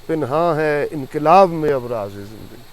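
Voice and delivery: slow, measured verse delivery; stately, stretched-out poetic line; poem recitation. Real, not acted. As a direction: recite Urdu verse, drawing out each phrase.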